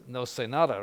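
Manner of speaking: no sé nada in Spanish; Spanish phrase. Shown as a demonstration. To the class, showing the Spanish phrase.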